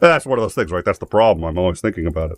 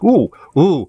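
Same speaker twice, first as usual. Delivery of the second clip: mock delight; 10 semitones higher, 4 dB louder than usual. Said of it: "I was like".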